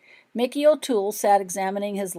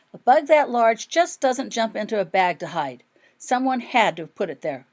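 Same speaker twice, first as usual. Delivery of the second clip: protesting; 4 semitones higher, 6 dB louder than usual. A narrator's reading. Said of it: "protested Rose".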